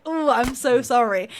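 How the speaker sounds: exaggerated condolence for someone's hometown; mock sympathy. Imagined stranger pitying her hometown, mock sympathy. Mock pity, quoted reaction.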